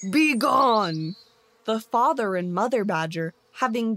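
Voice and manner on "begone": loud angry snarl; the bear snarling at the thrown-out family. Acted. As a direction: drive them off with a snarl. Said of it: "he snarled".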